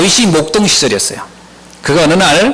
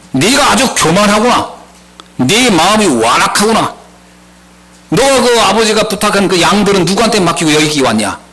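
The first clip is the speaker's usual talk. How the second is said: mock reproach from an older brother; lightly acted dressing-down; scolding; 4 semitones higher than usual. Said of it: "나무라는 장면이 납니다".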